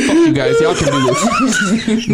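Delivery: mock storming off. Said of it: "I'm about to walk out and be like".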